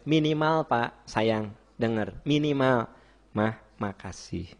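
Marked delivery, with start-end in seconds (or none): 3.3-4.5 low, soft, slow words to a wife; gentle thanks. Shown as a demonstration. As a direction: offer a tender, modest thank-you. Models minimal thanks to wife. (terima kasih lembut dan pelan)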